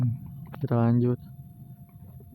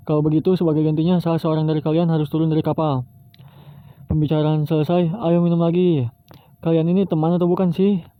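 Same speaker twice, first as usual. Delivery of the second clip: cheerful pirates drinking; 4 semitones higher than usual. Acted.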